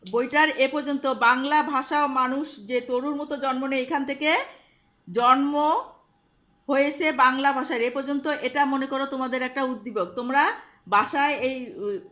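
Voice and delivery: loud, carrying classroom voice; loud instructions. Real, not acted. Teacher gives the class homework, loud classroom voice. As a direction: call it out so the whole class hears.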